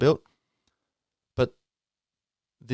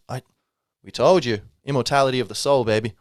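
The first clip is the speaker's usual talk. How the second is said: put-on Irish accent; 3 semitones higher, 4 dB louder than usual. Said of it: "That's Ramses with an Irish accent".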